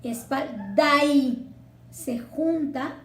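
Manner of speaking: "Espalda y" slow, with "a" and "y" fused into one sound; fuse "Espalda y" slowly; linking demo. Shown as a demonstration. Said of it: "otra sinalefa".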